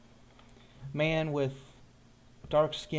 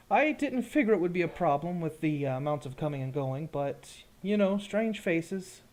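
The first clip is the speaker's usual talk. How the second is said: lightly voiced guard, higher pitched; a hint of a guard explaining himself; gate guard; 4 semitones higher, 4 dB louder than usual. Guard Derek answers about bringing in a stranger, lightly voiced guard.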